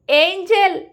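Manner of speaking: high, loud anguished yell; screaming her name. A narrator's reading. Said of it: "Shiva അലറിക്കൊണ്ട്". (അലറിക്കൊണ്ടുള്ള വിളി)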